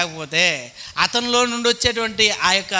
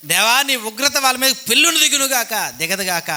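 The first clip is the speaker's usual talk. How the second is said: mock vengeful prayer; 3 semitones higher than usual. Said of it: "ప్రార్థన చేస్తాం కదండి".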